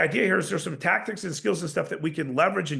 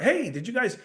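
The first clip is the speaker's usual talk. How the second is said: upbeat high greeting; 6 semitones higher than usual. Shown as a demonstration. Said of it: "this might be part of your personality".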